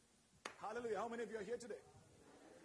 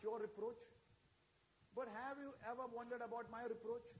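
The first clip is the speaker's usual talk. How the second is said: voice of God; 3 semitones lower, 5 dB quieter than usual. Retold or imitated. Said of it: "God said".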